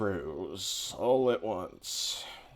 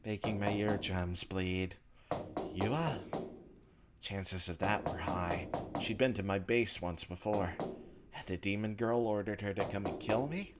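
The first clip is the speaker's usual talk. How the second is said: measured first-person narration, softer than the chat; story narration; 6 dB quieter, faster than usual. A narrator's reading. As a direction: read the inner monologue like a story. Reads visual novel narration aloud.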